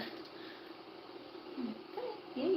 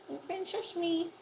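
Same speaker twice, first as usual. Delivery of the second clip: drawn-out, higher "Open sesame" sung slowly; slow coaxing sing-song; 8 semitones higher, slower than usual. Acted. Owner coaxing the hen to open her beak, slow higher sing-song. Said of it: "Open, open sesame".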